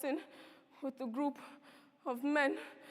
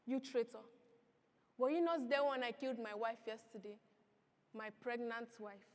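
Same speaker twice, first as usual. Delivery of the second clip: cold threat; 3 semitones lower, 5 dB quieter than usual. Acted. Man threatens father coldly.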